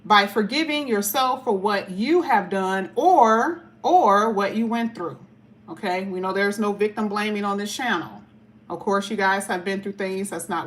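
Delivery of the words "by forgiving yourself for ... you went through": slow, deliberate card reading; measured oracle-card reading; reading the card aloud. Acted. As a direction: read each word out slowly. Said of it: "It says".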